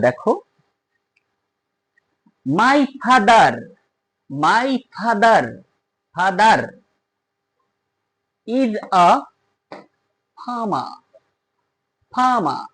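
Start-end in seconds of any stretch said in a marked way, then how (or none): 2.5-12.6 father is with the r sounded before the vowel, farmer with no final r; father's r linked into is; linking r. Shown as a demonstration. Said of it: "এখানে উচ্চারণ হলো ফাদার". (ফাদার-এর আর পরের ভাওয়েলের সাথে জুড়ে)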